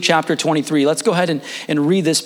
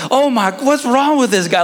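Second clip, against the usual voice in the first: retold laughing coach; 8 semitones higher than usual. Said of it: "He's laughing".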